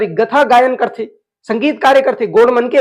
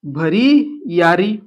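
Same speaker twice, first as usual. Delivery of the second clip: drawn-out answer; 4 semitones lower, much slower than usual. Shown as a demonstration. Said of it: "क्या?".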